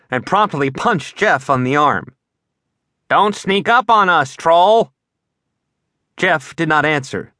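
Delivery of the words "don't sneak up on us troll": higher, louder jumpy yell; startled shout. Acted. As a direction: bark it out after a fright. Startled friend snaps at Jeff.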